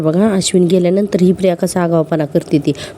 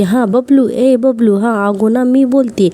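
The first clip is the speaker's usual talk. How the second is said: fake sweet drama; 4 semitones higher, slower than usual. Maina sweet-talking Priya on the phone for money, hammed-up sugary voice. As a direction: lay on the fake affection to coax money. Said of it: "असं लागते ना लगेच नाटक करायला".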